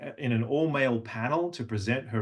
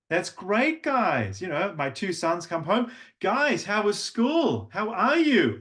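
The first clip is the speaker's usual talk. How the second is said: higher, upbeat greeting; high level two; 8 semitones higher, slower than usual. Shown as a demonstration. Father greeting his two sons home, higher and upbeat. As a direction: lift it up to greet the kids. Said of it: "when your voice is up here".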